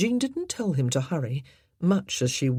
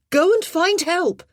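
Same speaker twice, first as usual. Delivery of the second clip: loud call through the door; 13 semitones higher, 8 dB louder than usual. A narrator's reading. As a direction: call out to him outside. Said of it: "she called".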